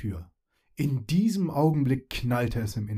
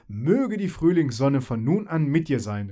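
called out; 4 dB louder than usual. Acted. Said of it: "rief sie".

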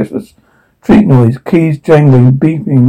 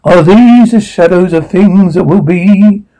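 theatrical Dickens recital; dramatic monologue. Acted. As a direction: declaim it to the stage. Audition monologue performance.

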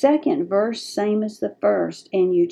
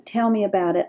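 soft gentle invitation. Shown as a demonstration. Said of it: "Allow them to talk through this".

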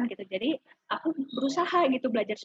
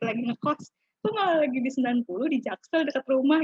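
imitated parent's reproach, building louder; mock parental scolding; 2 semitones higher, 4 dB louder than usual. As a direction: act out a parent demanding an explanation, lightly. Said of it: "Akhirnya dimarahin". (tiruan omelan orang tua)

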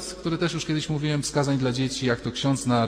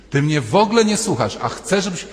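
louder, rising exasperation; exasperated complaint; 5 semitones higher, 6 dB louder than usual. Retold or imitated. Husband repeating his complaint, louder and exasperated. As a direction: push the complaint harder. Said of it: "Ilu mężczyzn w kółko mówi".

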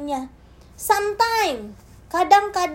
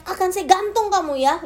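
mild mock angry threat; 5 semitones higher than usual. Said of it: "bapak saya marah dan teriak".

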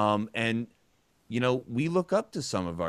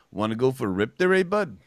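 put-on Canadian accent; 5 dB louder than usual. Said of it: "my favorite is".

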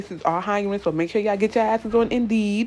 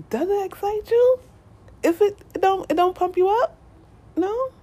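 much higher, bouncing with excitement; hyped up; 13 semitones higher than usual. Acted. Firing viewers up about their goals, high and hyped. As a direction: pump them up like a hype coach.

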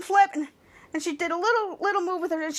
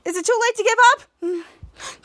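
slow pleading; 6 semitones higher, 4 dB louder, slower than usual. Retold or imitated. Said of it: "and said".

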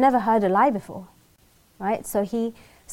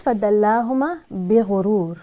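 Quranic recitation; much faster than usual. Acted. Quoting the Quran in Arabic.

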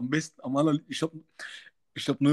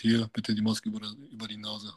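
polite tone; 3 semitones lower, 4 dB quieter than usual. Retold or imitated. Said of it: "Aber in einem höflichen Ton".

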